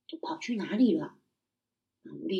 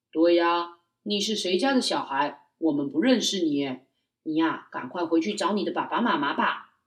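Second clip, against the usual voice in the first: stern father; 2 semitones lower, 4 dB louder than usual. Acted. Father tells child to leave.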